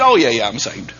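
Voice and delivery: mock offhand shrug of a reply; hammed-up careless churchgoer; casual dismissive. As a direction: toss it off like it's nothing. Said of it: "cheapen it so much".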